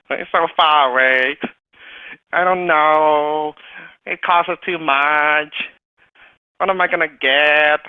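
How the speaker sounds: slow, drawn-out doubting inner voice; anxious inner voice. Retold or imitated. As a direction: let the fearful self whine its worries. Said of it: "My lower self kicked in".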